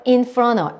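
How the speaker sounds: "in front of" blended into one word; "in front of" run on like "in-frona"; linked pronunciation. Shown as a demonstration. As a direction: soften "of" to an uh in "in front of". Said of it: "이렇게 돼요".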